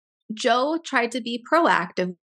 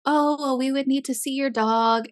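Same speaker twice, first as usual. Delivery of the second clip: higher-pitched, mildly snippy phone voice; snippy receptionist; 3 semitones higher than usual. Retold or imitated. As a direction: imitate a slightly snippy vet receptionist. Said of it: "just being kinda snippy with him".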